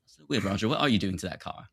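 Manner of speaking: lightly mocking British accent. Bandmates puzzled at Roger in the film, British accent. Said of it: "do the British accent one more time".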